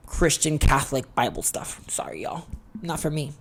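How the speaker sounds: hushed, sheepish whisper; soft apologetic whisper; whispered aside. Real, not acted. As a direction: whisper it like a confession you're half-embarrassed by. Whispered aside about religion.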